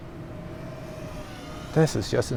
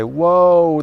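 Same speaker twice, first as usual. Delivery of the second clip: loud, raised alarm imitation; mock freak-out; 5 semitones higher, 5 dB louder than usual. Drone warning system alerting the pilot, mock freak-out. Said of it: "start freaking out and say".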